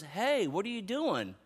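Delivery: soft, slow and kind; gentle fatherly. Retold or imitated. Pastor voicing God kindly finding a child with markers. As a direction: ask it kindly as a loving dad.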